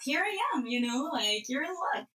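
high, bright customer-service cheer, imitating herself; eager helpful reply. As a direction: brightly offer help as if retelling it. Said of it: "And I said".

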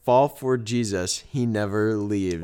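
slow, deliberate reading; slow reveal. Shown as a demonstration. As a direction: unveil the sign slowly. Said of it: "It is".

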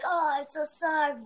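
lightly imitated Asian accent; a hint of a thick Asian accent. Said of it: "little thick Asian accent".

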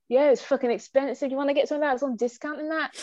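casual, fast shop-floor banter; matey customer chat. Retold or imitated. Shop assistant to a bargain customer, casual and fast. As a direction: talk like a mate to the customer. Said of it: "some guy that I want them to buy all the discounted stuff".

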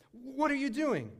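stern chef. Retold or imitated. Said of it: "and he says".

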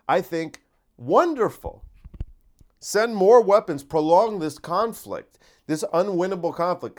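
psychopath character. Acted. As his comedy character, a hammed-up gleeful psychopath. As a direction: relish the cruelty like a cartoon villain. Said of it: "that's the character".

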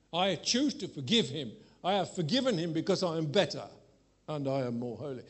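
mock self-righteous piety; smug, self-righteous prayer. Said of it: "You could see it in my tone of voice".

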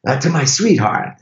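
hesitant mock Italian, searching for words; awful Italian accent. Driver tells the visitors about his marriage, awful Italian accent. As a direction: put on a bad Italian accent, haltingly. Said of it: "That's an awful Italian accent".

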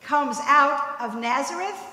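slow, scornful quote of the townsfolk; slow mocking quote, townsfolk looking down on Nazareth; quoted scorn. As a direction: say it like a dismissive proverb. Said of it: "and I quote".

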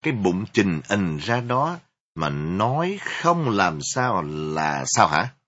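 loud, slow, accusing; angry scolding. Acted. Angry mother demands an answer from her daughter, loud.

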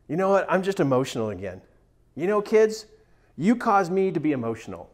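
lightly acted worked-up parent venting; mock exasperation. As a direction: put on a mildly fed-up parent, brisk and emphatic. Mimicking people venting at their kids.

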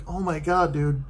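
mock-exasperated just call me Carol. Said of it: "and it's like".

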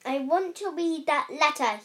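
loud demand. Acted. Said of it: "he said loudly".

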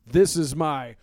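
a hint of a cocky hero showing off; heroic boast. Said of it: "He's like".

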